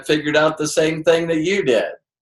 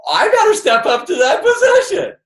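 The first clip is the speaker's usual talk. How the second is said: much higher and louder, laughing through it; mock eager downline voice; 5 dB louder than usual. Speaker imitating his downline copying him, high and laughing. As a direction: mimic the team copying you, with a laugh. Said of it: "And then your people go".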